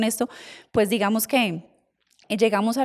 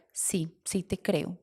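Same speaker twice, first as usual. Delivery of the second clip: slow, much softer, quietly giving in; tender admission; 3 semitones lower, 9 dB quieter, much slower than usual. Retold or imitated. Mother quietly admitting she believes her daughter, soft and slow.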